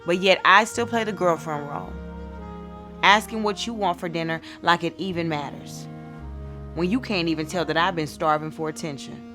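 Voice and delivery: loud, emphatic spoken-word complaint; hurt reproach. Acted. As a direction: confront a partner who has neglected you, pushing the key words. Poem confronting a neglectful boyfriend.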